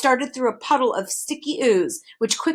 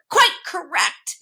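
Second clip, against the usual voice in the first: slow, higher mock shriek of victory; triumphant shriek; 7 semitones higher, 3 dB louder, slower than usual. A narrator's reading. Demon crowing to the children, triumphant shriek. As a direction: crow it out like a gleeful demon. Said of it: "he shrieked triumphantly".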